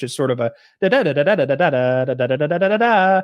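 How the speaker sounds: imitating how fast Spanish sounds to an outsider; mock Spanish babble. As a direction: rattle off fast nonsense syllables like overheard Spanish. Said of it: "when I hear Spanish".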